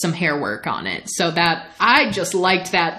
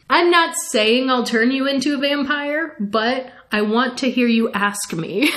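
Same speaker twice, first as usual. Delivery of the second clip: higher, coy acted tease; teasing offer; 5 semitones higher than usual. Lestat dangles vampirism before Talbot, coy and teasing.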